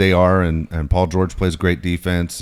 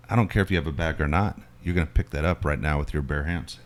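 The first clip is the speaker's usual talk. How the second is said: lower, restrained retold order; low-key threat; 3 semitones lower, 6 dB quieter than usual. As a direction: imitate a quiet, firm demand. Retold confrontation, first order.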